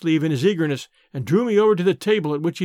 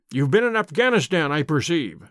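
plain

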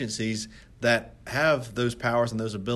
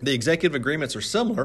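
voice breaking slightly in the middle of the line; 3 semitones higher, 3 dB louder than usual. Partway through an explanation, the speaker's voice gives a little voice crack. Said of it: "had a little voice crack there".

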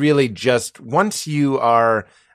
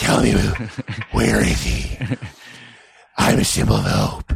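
strangled, rough, creaky, breathless caped-hero rasp; 4 semitones lower than usual. Doing a Christian Bale Batman impression, lispy and strained. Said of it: "you do Christian Bale Batman".

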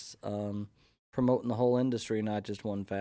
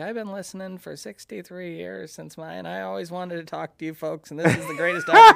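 very loud, swooping, put-on old lady voice; 7 semitones higher, 11 dB louder than usual. Imitating a woman heard on the radio while driving: old lady voice. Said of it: "That's my old lady voice".

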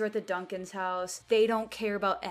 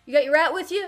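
very loud, high yell; 9 semitones higher, 11 dB louder than usual. Damien calls out through the rolled-down car window, yelling. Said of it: "he yells".

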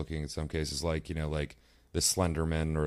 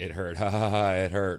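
loud, chuckling, laughing through the words; 3 semitones higher, 5 dB louder than usual. Showing how the same words change with emotion: laughing while saying it hurt. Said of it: "It's like".

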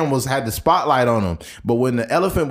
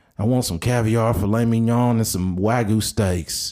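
put-on country accent, laid on deliberately; 4 semitones lower than usual. Imagining someone's request in a corrections facility, in a put-on country accent. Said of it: "I don't know why I'm doing a country voice".

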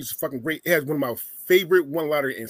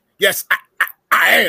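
stammering, stuttering voice; 4 semitones higher, 9 dB louder than usual. Saying a line the way another man did: stuttering. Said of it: "You got to say it in a stutter, like the other man".

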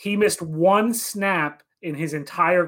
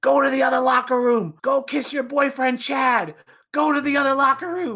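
high-pitched scream from the throat; 8 semitones higher than usual. Retelling how a player screamed at him in the locker room: imitating someone screaming. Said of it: "he just starts screaming".

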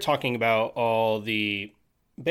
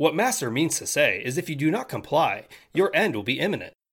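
intelligent-sounding, smartest-in-the-room voice; 4 semitones higher than usual. Describing how they voiced a game creature translating for its master, Spock voice. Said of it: "I made him talk like Spock".

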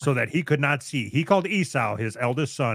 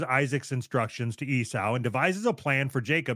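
plain

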